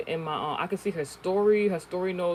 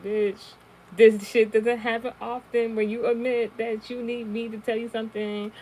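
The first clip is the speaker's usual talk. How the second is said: sassy retort; 6 semitones higher, 4 dB louder than usual. Retold or imitated. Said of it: "I'm just like".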